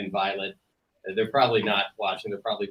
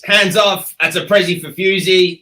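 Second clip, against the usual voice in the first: Fuse voice; 7 semitones higher, 12 dB louder than usual. Acted. Playing Fuse, grabbing posters.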